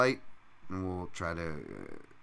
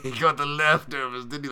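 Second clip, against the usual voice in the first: put-on Bisping's English accent again; 6 semitones higher, 6 dB louder than usual. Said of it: "He's like".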